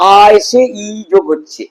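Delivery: teacher lengthening আ and ই; joining two vowels. Shown as a demonstration. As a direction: stretch আ, then ই, as they join. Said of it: "দুটো একসঙ্গে হচ্ছে".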